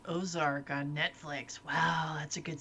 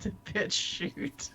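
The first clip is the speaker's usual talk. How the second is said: The bitch shoot, slow with "shoot" drawn out; slow, playful "bitch shoot"; shifted emphasis; 3 semitones higher, 3 dB quieter, slower than usual. Shown as a demonstration. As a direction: stretch out "bitch shoot" word by word. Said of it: "where you put the emphasis".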